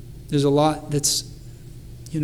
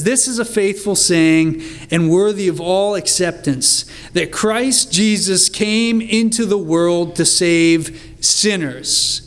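fervent, building reading of scripture; worked up; 2 semitones higher than usual. Acted. Paul getting worked up writing to Timothy, fervent. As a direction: let Paul's passion rise through the verse. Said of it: "Paul is getting worked up here".

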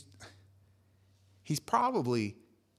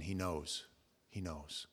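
dread-filled murmur; 7 semitones lower, 9 dB quieter, slower than usual. Retold or imitated. Judas thinking in dread.

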